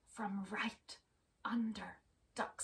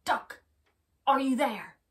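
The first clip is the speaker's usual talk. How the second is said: loud call through the door; Wolf calling; 4 semitones higher, 11 dB louder than usual. Acted. Wolf calling loudly through Duck's door. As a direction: call out to Duck inside the house. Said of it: "called Wolf".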